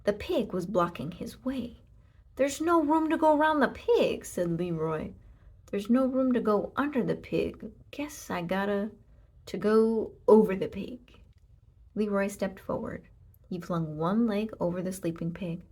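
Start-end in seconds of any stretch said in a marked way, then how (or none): 2.4-11.2 cowboy voice. Acted.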